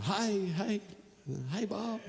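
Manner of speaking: soft, slow Southern drawl greeting; Nashville drawl. Retold or imitated. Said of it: "this is how they talk down there".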